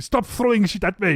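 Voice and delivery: mock angry complaint. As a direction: protest as if being pelted. Acted complaint at being pelted.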